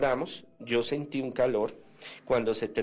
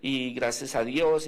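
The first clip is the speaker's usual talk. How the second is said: mildly excited retelling, higher pitched; exalted; 3 semitones higher than usual. Retold or imitated. Woman returns to thank the seminarian for her healing, mildly exalted. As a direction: imitate an excited woman, drawing out words. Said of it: "eh, exaltada".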